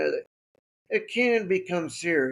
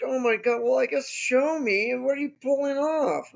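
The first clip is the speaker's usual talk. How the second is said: raised pitch, mildly alarmed; higher, mock-worried voice; freaked-out nurse; 6 semitones higher than usual. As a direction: imitate a rattled nurse. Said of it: "my nurse was kind of freaked out".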